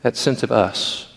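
ordinary delivery

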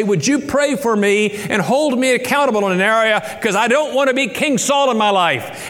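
impassioned plea for accountability; pleading request. Retold or imitated. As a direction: beg the church to hold you accountable. Voicing a congregant asking accountability.

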